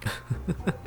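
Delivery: small acted chuckle; soft chuckle. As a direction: chuckle softly in character. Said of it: "caused Pierce to laugh a bit".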